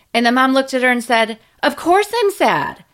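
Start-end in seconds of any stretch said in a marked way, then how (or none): 1.6-2.7 sharply annoyed, very irritated voice, pitched up. Retelling the patient's mom replying to her, mimicking a very irritated tone. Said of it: "Like in a very irritated tone".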